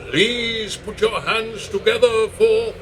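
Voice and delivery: grand entrance announcement. Acted. Compere announcing the act.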